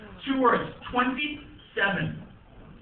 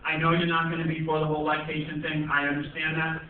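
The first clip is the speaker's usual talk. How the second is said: a hint of a lower, patient wife; lightly voiced wife; 7 semitones lower than usual. Wife explaining the lactation class, lightly voiced and patient. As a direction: talk him down gently. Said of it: "She's like".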